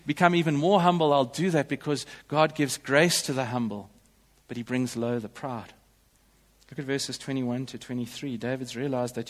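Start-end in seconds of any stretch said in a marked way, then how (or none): 0.1-5.7 fervent David. Retold or imitated. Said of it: "He says".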